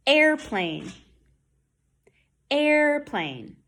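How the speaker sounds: airplane with a held R in air; "Airplane", first syllable long, R clearly sounded; good R. Shown as a demonstration. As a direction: draw out the R in "Airplane". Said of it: "That's a good R".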